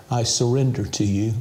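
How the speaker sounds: slow, pleading prayer for viewers to repeat; led prayer. Shown as a demonstration. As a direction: pray it slowly, begging for help. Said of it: "Pray this prayer".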